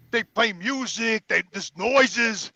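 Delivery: slow, drawn-out disbelief; complaining about Verizon hold noises, slow and drawn out; exasperated drawl. Retold or imitated. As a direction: drag it out in disgust. Mocking Verizon automated phone line.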